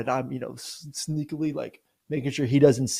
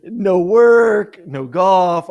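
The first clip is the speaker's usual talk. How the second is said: laughing; 6 semitones higher, 10 dB louder, much slower than usual. Real, not acted. Laughing complaint.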